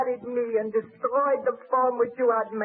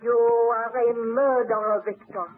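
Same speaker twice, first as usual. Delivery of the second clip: bitter accusation; 3 semitones lower than usual. Acted. Accusing him of the deaths.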